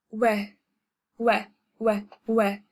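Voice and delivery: "we" said like "weh", rhyming with "wet" minus the t; pronunciation demonstration. Shown as a demonstration. Teacher sounding out O followed by E, demonstrated pronunciation. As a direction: repeat a short "weh" for "we", spaced out. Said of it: "that's how you pronounce it".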